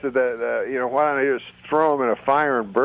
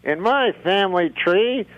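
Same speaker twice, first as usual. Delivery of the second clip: higher dummy voice; puppet voice; 6 semitones higher than usual. Pretend. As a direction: deliver the joke as the dummy. The speaker voices dummy Rusty.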